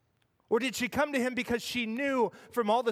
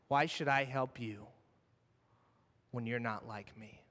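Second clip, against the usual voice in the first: quiet repeat; 10 semitones lower, 7 dB quieter than usual. Acted. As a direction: lower and softer, sinking away. Same question repeated, fading.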